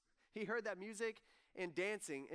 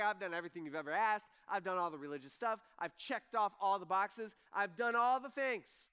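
put-on resentful older son, louder; 7 dB louder than usual. Older son protests to his father, louder and resentful. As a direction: complain like a wronged firstborn. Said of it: "He's like".

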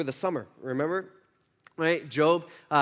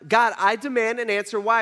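louder, pleading cry of why to God; 4 semitones higher, 4 dB louder than usual. Retold or imitated. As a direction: cry out to God, demanding an answer. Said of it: "He starts crying out to God".

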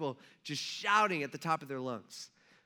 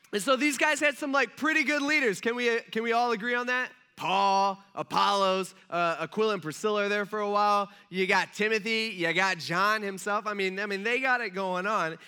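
excited; 2 semitones higher, 5 dB louder than usual. Real, not acted. Excited praise of church leaders.

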